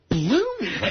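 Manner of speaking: high-pitched mock outrage; comic sleepless exasperation; shaking disbelief. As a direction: relive being driven crazy by one word. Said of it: "I was shaking".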